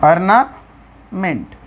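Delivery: ऑर्नामेंट drawn out very slowly, syllable by syllable; slow ornament demo. Shown as a demonstration. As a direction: stretch ऑर्नामेंट out slowly for the class. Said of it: "जैसे हमने बोल दिया ऑर्नामेंट". (ऑर्नामेंट को धीरे-धीरे, एक-एक अक्षर)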